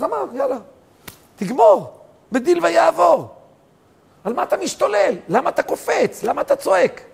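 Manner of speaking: high, pressing questions; fervent rebuke. Acted. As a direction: challenge the listeners, heated. (תוכחה נלהבת, שאלות בקול גבוה)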